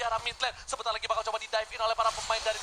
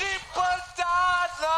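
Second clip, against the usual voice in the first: dramatic exclaim; 4 semitones higher, 3 dB louder, much slower than usual. Real, not acted. Caster exclaims after win.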